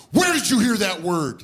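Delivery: mock-angry grilling; mad dad. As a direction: imitate an angry dad's interrogation. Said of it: "he was legit mad".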